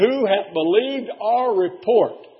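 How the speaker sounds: slow, solemn reading; solemn King James reading; scripture recitation. Acted. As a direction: intone the verse. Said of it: "the Bible said".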